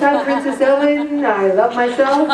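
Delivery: lightly put-on, self-adoring princess voice; a hint of hammed-up princess; mock princess. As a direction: play a pretend princess for laughs. Mocks calling oneself a princess.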